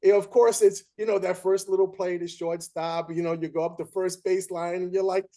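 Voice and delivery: a hint of excited bravado; excited retelling. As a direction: relive the hopeful first play. Excited retelling of first play.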